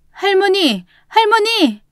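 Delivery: very high startled calls; alarmed cry. Acted. Roommate seeing grandmother climb to the window, alarmed. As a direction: call out in sudden alarm. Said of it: "보고 놀라 소리쳤습니다".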